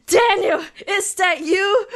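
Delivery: high, loud and giggly; excited. Shown as a demonstration. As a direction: call out delighted. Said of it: "I don't know how to voice act that".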